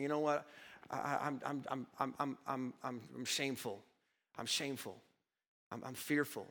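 quiet, halting, ashamed stammer; ashamed confession. Retold or imitated. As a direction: stumble over the words, heavy with shame, voice sunk low. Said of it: "he was actually filled with shame".

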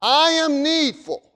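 lightly voiced humble king admitting need; humble king's plea. Preacher voicing King Solomon confessing he is helpless. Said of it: "is what he said".

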